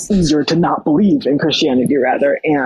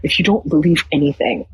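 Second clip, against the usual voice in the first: a hint of a Nigerian church uncle; Nigerian accent; 2 semitones higher than usual. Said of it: "I'm trying to do the Nigerian accent".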